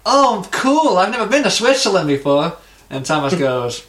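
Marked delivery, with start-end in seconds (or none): 0.1-2.6 high, swooping mock-American gush; enthusiastic American guy. American mistakes a Swede for Swiss, gushing enthusiasm. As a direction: play the impressed, clueless American. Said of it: "one of the American guys goes".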